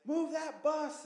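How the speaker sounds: mock TV host call. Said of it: "where they, like".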